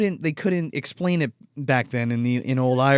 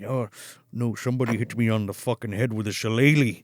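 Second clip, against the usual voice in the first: put-on drunk man; 6 semitones lower, 4 dB quieter than usual. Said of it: "You're a goddamn drunk".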